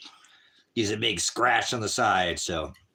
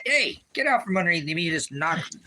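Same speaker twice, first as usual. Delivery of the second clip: sharply higher, startled; 7 semitones higher than usual. Real, not acted. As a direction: jump up in pitch, caught off guard. Dog underneath him.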